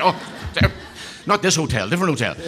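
correcting himself through laughter; laughing. Real, not acted. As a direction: giggle through the slip.

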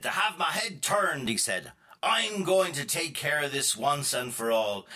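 put-on a touch of a fed-up old man; mild angry outburst. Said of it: "Ashy Jack was really angry".

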